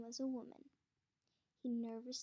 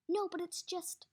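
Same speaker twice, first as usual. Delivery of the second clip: higher, louder flustered start; flustered guard; 6 semitones higher, 6 dB louder than usual. Acted. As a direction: scramble for an excuse. Podensky protesting again.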